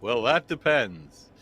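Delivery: Southern-free, very slow "Well, that depends", each word stretched; drawn-out knowing hedge. Shown as a demonstration. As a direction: stretch it out like the classic consultant's answer. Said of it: "So let's just say".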